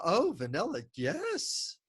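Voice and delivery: put-on high, rising childlike delight; six-year-old son. Dad imitates his son choosing vanilla, high and excited. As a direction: squeak out the yes like an excited kid. Son answers about ice cream.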